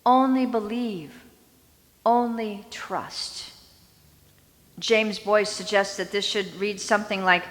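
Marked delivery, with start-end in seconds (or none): 0.1-3.5 calm, steady comfort, slowing at the end; steady a grieving father; reassuring. Acted. Jesus reassuring Jairus after the bad news, mildly calm. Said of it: "Jesus is quick to reassure him".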